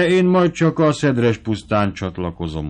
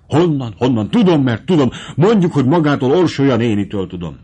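irritated retort; 3 semitones higher, 4 dB louder than usual. Acted. Lady snaps at the servant.

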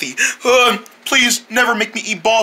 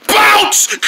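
excited yell; 13 semitones higher, 3 dB louder than usual. Acted. Bouncing the germ out.

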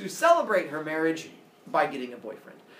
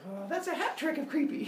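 high-pitched mock unimpressed woman; put off; 9 semitones higher than usual. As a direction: pitch it up for a creeped-out goddess. Acted goddess rejecting suitor.

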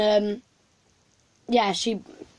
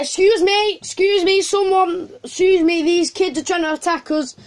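raised, high call for help across the street; 6 semitones higher than usual. Retold or imitated. Teen calling out to passers-by for help, raised and high. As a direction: call out to strangers, alarmed.

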